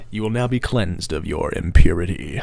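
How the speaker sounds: low, loud, menacing villain pronouncement; Amon. Shown as a demonstration. Streamer showing off an Amon impression, deep villain voice. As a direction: intone it deep and grave like a villain. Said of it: "I can do a good Amon impression".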